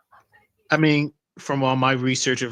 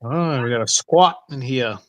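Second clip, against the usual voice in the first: bad mock Scottish accent; a clumsy fake Scottish accent. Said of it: "That was my worst Scottish accent".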